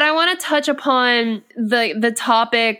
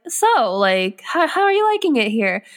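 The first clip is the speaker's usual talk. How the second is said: loaded inflection; 2 semitones higher than usual. Retold or imitated. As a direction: mimic a coworker's pointed small talk, pitch lifting. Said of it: "in the inflection in your voice".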